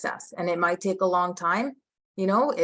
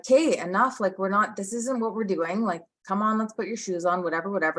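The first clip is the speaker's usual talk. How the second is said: annoyed mom; 3 semitones higher than usual. Retold or imitated. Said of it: "And then I'll be like".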